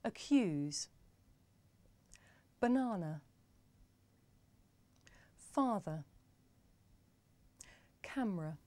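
each word said on its own with a light uh in the weak syllable; schwa examples. Shown as a demonstration. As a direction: model Accuse, banana, father, camera one by one for learners. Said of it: "Listen and repeat".

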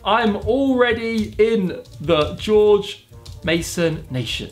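very slow, spaced-out words; typing aloud. Real, not acted. YouTuber chats to own AI, slow typing voice. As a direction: dictate it slowly as you type.

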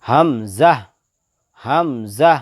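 হামজা in two firm, separated syllables; firm articulation. Shown as a demonstration. Teacher demonstrates the letter to learners, হামজা said firmly. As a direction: pronounce হামজা hard from the start of the throat. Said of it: "শক্তভাবে আদায় হবে".

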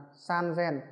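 "san gen" said as san-zen, with a z; voiced z in sanzen. Shown as a demonstration. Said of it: "Nhưng mà khi số ba này".

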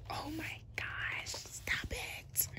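soft pleading whisper; whispered plea. Real, not acted. Fan begging the noisy album to stop, whispered plea. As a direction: beg it to stop under your breath.

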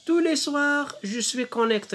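slow verse with a high opening; poem recitation. Shown as a demonstration. Teacher rereads the verse to pupils, slow poem recitation. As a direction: start high and settle into measured recitation. Reading poem aloud in lesson.

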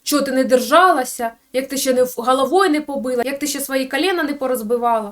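half-hearted imitation of shouting at mom; mock yelling at mother. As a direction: nag her like a son telling off his mother. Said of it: "на неї орати".

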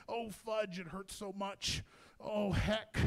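mock-demure labor complaint; imitating proper restraint. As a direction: mimic polite suffering, held back. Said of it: "trying to be so proper".

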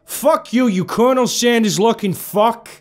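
screaming high and loud with rage; furious yell. A narrator's reading. Captive screaming defiance at the villain, furious yell. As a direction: yell it into his face, full fury. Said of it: "I yelled".

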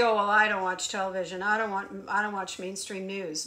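lightly mimicked listener. Quoting followers who claim they avoid the news, lightly mocking. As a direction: rattle off someone's mock excuse. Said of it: "You say".

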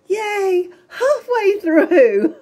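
high, slow and laughing, mock cheer; sarcastic laughing yay. Real, not acted. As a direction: cheer ironically through a laugh. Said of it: "I don't know why I'm smiling".

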